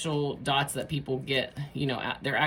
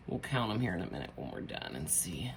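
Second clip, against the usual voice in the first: soft breathy whisper to herself; 11 semitones lower, 11 dB quieter, faster than usual. Real, not acted. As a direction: drop to a whisper as a side note. Quiet aside while crafting.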